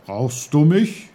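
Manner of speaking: perky character voice, rising sharply; Onkel Pfefferkorn, popping up. A narrator's reading. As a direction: pipe up out of nowhere. Unseen uncle suddenly pops up.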